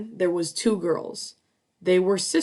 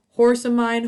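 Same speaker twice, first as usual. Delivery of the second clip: loud high call to the horse; 5 semitones higher, 7 dB louder than usual. Acted. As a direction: call out across the field. Witch calls out to horse.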